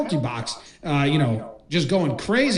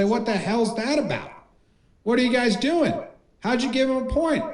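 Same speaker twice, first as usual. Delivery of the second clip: indignant challenge, pitched up; acted-out protest without shouting; mock outrage; 6 semitones higher than usual. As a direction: play a coach demanding answers from the judge. Acts coaches confronting the judges.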